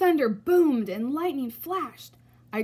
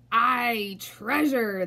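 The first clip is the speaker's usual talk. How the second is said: shouting; 4 dB louder, much slower than usual. Acted. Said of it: "the others shouted".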